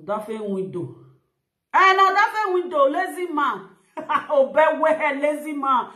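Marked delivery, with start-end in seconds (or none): 1.7-5.9 mocking through laughter, louder; laughing jeer; laughing mockery. Real, not acted. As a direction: laugh while calling him lazy. Laughing while mocking "lazy man.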